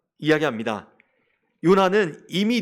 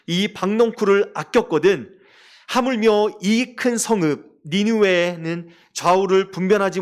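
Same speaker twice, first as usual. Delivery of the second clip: scripture reading. Acted. Reads scripture aloud.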